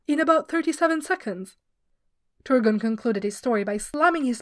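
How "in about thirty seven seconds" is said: mimicking the singer.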